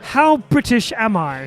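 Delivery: mock British. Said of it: "let me ask you a question".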